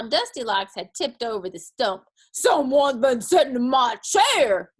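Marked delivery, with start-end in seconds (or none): 2.3-4.7 great big loud, grouchy shout; grouchy bear growl. A narrator's reading. Big bear finding his stump tipped over, grouchy growl. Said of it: "growled the big bear in his great big grouchy voice".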